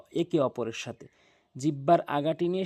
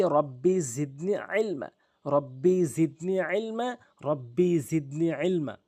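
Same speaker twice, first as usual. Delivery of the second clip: recited prayer. Shown as a demonstration. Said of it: "দোয়াটি পড়ে নিচ্ছে".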